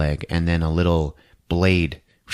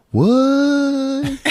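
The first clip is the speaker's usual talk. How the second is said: tag; 4 dB louder than usual. Retold or imitated. Dolls all stop, stunned.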